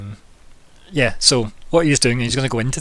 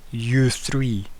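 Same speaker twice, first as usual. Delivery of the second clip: magically amplified voice. Acted. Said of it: "The booming voice, like, rumbles through the street".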